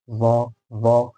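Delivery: वॉ long and heavy, tongue lifted. Shown as a demonstration. Teacher showing the sound between two letters, heavy long वॉ. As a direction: lift the tongue for a drawn-out वॉ. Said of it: "ज़बान ऊपर उठ रही है".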